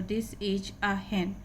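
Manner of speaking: slow classroom model reading; slow teaching read. Shown as a demonstration. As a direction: say "this" as "dis", every word slow. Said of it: "टीएच का उच्चारण यहाँ पे द".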